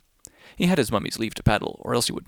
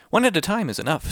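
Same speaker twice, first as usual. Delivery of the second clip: cautioning fish voice; 7 semitones higher than usual. Acted. The fish warns the greedy whale, higher and firmer. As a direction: warn the whale in the small fish voice.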